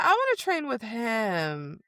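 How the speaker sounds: playful stretched-out wanting; teasing demand. Retold or imitated. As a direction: imitate someone pointedly asking for him. Voices heroine teasingly choosing a trainer.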